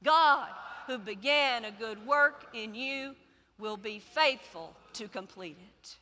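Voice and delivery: earnest, fervent declaration; like you mean it. Acted. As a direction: say it with conviction. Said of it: "say it like you mean it".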